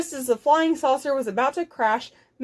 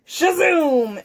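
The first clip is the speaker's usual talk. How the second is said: high, drawn-out zoom; whooshing blast effect; 4 semitones higher, 4 dB louder than usual. Acted. Cow bumps the rocket switch, whooshing blast. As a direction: launch the word like a rocket.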